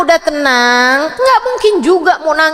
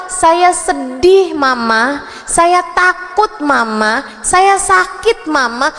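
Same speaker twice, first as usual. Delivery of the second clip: put-on child telling mother; slower than usual. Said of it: "dia bisa ngasih tahu".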